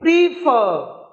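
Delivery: प्रीफर with the final फर punched; slow teacher's demo of प्रीफर, weight on फर; stress on second syllable. Shown as a demonstration. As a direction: lean hard on फर in प्रीफर. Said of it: "इस फॉर को जोर से पढ़ना है".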